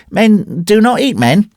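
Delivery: put-on slow, high-pitched child's rebuke; indignant little boy. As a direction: correct the grown men slowly, high in pitch. Boy rebukes the taunting man.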